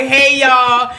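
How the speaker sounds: laughing mock greeting; showing off. Recalling her Easter dress entrance, laughing greeting. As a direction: strut out with a cheery hello. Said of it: "I came out like".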